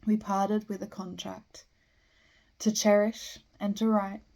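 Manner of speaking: measured poem recital with line breaks; poetry reading. Acted. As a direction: recite verse, pausing after each phrase. Reads a poem aloud.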